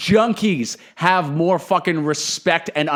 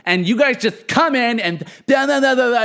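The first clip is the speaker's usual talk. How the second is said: imitating a dog walker losing it, rising to a squeal; mock outraged dog walker; 4 semitones higher, 4 dB louder than usual. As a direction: ham up an entitled rant that climbs higher. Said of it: "losing it over me".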